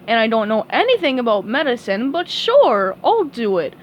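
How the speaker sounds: lightly voiced dopey starfish; Patrick voice. Patrick agrees to play doctor for SpongeBob, dopey eager voice.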